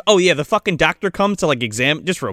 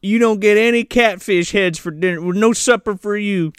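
mock-scolding Southern parent; playful Southern accent; put-on Southern accent; 3 semitones higher than usual. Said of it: "one-up each other with their accent".

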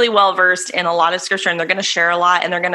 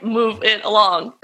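frustrated; slower than usual. Retold or imitated. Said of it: "It was my frustrated".

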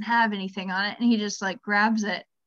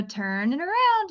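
put-on slow, higher, clear instruction to the kid; therapist prompt; 6 semitones higher than usual. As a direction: model the phrase for him, slowly. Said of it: "So I go".

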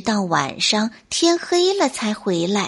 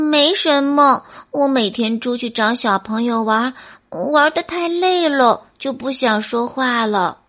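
慌忙掩饰的小松鼠. Acted. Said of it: "皮皮连忙摇头说".

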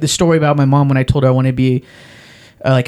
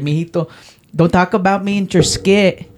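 put-on auntie's Hispanic accent. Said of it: "like, do an impression like that".

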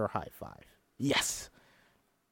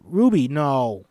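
firm stop; 7 dB louder, much slower than usual. Acted. Coach stops her singing.

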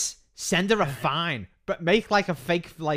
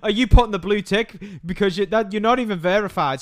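mock indignant woman; 6 semitones higher, 7 dB louder than usual. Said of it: "You're like".

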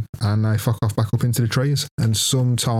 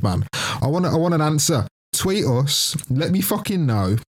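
mock call-out; 3 semitones higher than usual. Real, not acted. Calls out to listener.

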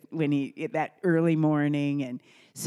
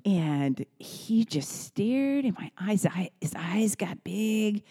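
slow, breathy whispered narration; hushed storytelling; 3 semitones higher, slower than usual. Real, not acted. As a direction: draw the listener in with a hush. Hushed storytelling of child's reaction.

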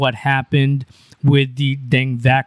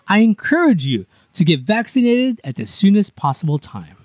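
more professional read; 2 semitones higher than usual. Shown as a demonstration. Redone for a co-host who asked for it, as a polished official statement. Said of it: "I'll try to make it a little bit more professional".

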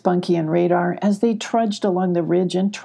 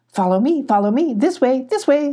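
high eager goat calling the way; 6 semitones higher, 3 dB louder than usual. A narrator's reading. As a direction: hurry them along in a high goat voice. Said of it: "said the goat".

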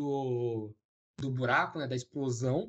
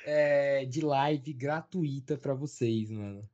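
coach pitch voice. Retold or imitated. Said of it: "Quase que ele virou pra vocês e falou".

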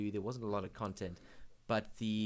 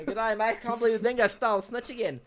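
high, loud mock Aussie; hammed-up Australian accent, breaking into laughter; 11 semitones higher, 9 dB louder than usual. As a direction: play a cartoon Australian, pitched up and loud. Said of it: "very authentic Australian accent".

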